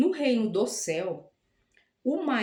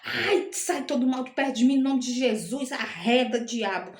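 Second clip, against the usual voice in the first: mock rebuke; 2 semitones higher than usual. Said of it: "eu fiquei nervosa, eu falei".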